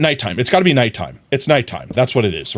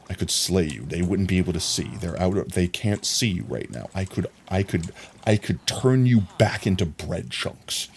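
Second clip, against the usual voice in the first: mock menace; 6 semitones lower, 8 dB quieter than usual. Menacing threat to villager.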